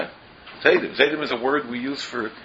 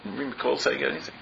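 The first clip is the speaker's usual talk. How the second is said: mock innocent denial; 2 semitones higher, 6 dB quieter, faster than usual. Playing the innocent sinner.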